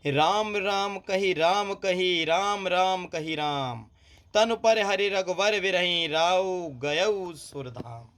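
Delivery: slow, drawn-out verse reading; poem recitation. Acted. Teacher reciting the doha to students, slow recitation. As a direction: recite the doha slowly and sadly.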